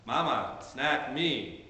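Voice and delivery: mild mock toddler demand. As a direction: push the request harder, mock impatient. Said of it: "it gets a little bit louder".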